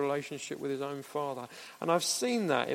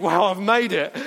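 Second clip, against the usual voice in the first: hamster voice; 9 dB louder than usual. Pretend. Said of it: "they think".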